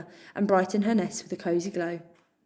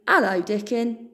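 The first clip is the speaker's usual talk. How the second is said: put-on loud, slow greeting of an old customer; shrew seller; 5 dB louder than usual. Tea seller greeting Dickon, loud and slow. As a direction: greet him warmly, drawn out.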